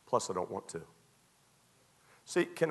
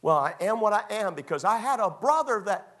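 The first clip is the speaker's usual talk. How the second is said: mock excuse-maker; 8 semitones higher, 4 dB louder than usual. Mimics excuse about his upbringing.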